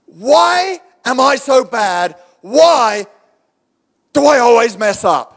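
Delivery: high, slow cry of "why"; hammed-up anguished questioning; acted self-reproach. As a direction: dramatise someone berating themselves. Acts out a shame-filled inner voice.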